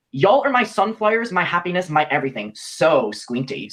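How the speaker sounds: gushing quote, starting high and settling; mock soppy. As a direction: read out a gushy message, drawing out the last words. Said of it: "she's being so soppy".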